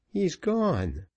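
high, lightly voiced boy, to himself; boy repeating to himself. A narrator's reading. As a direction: murmur it as comfort, boy's voice. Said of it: "who repeated to himself".

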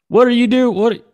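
high, loud cartoon dad; Hank Hill. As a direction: holler it like an indignant suburban father. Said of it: "Do you like Hank Hill?".

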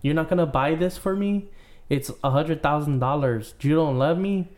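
mock Russian accent, whiny; a weak Russian accent, pleading; bad Russian accent. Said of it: "Your Russian accent is bad".

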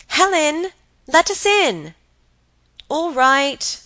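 high, loud call. Acted. Calling in at the window.

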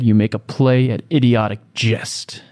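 Shakespearean. Acted. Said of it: "Almost got Shakespearean at the end there".

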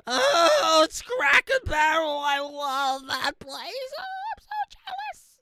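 very high, wailing mock envy; hammed-up squeal, words stretched way out; mock gushing. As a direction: parody a swooning social media fan. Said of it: "they're like".

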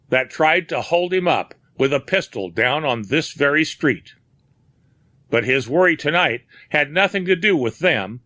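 a hint of an Irish skipper explaining; old sea captain. A narrator's reading. Dolan speaks of his friend.

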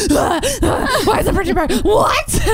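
high, gasping mock meltdown; hysterical mother. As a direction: overblown sobbing panic, building to a squeal. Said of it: "your mother is gonna be like".

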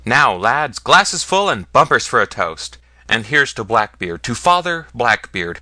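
loud, hearty call to raise glasses; rousing toast. Acted.

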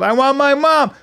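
high, loud daughter whine; whiny child. Retold or imitated. Daughter to dad when scolded, high whine. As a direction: imitate a scolded kid crying out. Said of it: "eight years old".

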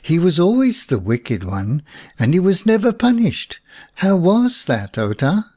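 mildly indignant protest, climbing high; indignant child, understated, pitch rising. A narrator's reading. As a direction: protest the unfairness as a little boy. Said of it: "said little Jan indignantly".

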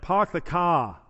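non-rhotic accent, R dropped in "Park" and "car"; regional non-rhotic accent. Shown as a demonstration. Preacher shows the congregation a regional accent, imitated non-rhotic. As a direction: imitate a drawn-open "pahk the cah" accent. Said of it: "may actually have that accent".

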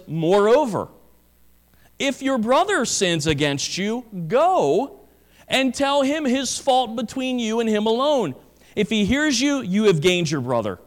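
solemn, measured Bible reading; scripture reading. Acted. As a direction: read the verses like a preacher at the pulpit. Reads scripture passage aloud.

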